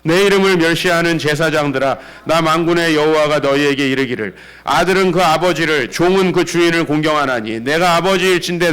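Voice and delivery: loud, sustained recitation; scripture reading aloud. Acted. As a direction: read the verse out to lead the congregation. Scripture read aloud after cue.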